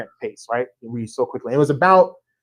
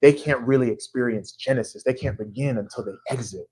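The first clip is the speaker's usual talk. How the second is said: lightly voiced self-important thinker, softer; a hint of pompous wisdom, softer; mock deep thinker; 3 semitones lower, 4 dB quieter than usual. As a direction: play it like a would-be profound writer. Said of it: "I thought I was being deep".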